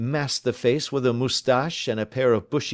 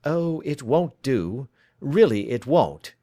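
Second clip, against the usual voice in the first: slow, smooth and unhurried, then a little louder; suavely; 2 semitones higher, 3 dB louder, slower than usual. Acted. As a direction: calmly close the door on his escape. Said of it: "said Holmes suavely".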